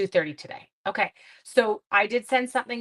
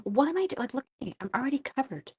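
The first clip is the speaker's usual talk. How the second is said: mock dismay; 6 semitones higher, 5 dB quieter, faster than usual. Real, not acted. Finds herself covered in ink.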